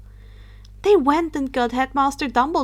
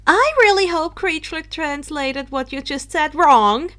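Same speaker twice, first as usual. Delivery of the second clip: loud, indignant retort; indignant exclaim; 4 semitones higher, 5 dB louder than usual. Acted. Luna indignantly challenges Harry's words. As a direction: bristle with indignation. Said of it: "Luna exclaimed indignantly".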